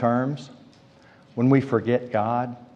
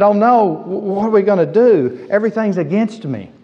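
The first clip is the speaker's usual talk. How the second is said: higher-pitched, stammered mock despair; mock self-pity; 5 semitones higher than usual. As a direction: act out a woe-is-me outburst. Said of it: "didn't give himself a pity party".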